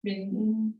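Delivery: measured yoga-teacher cueing, pausing between phrases; evenly paced breathing instructions; guided breathing. Acted. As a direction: lead the class calmly through each breath. Leads breathing before the Om.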